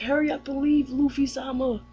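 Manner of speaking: high-pitched, mildly cross command; retold annoyed princess. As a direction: imitate a miffed princess ordering him out. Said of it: "pissed at him and stuff".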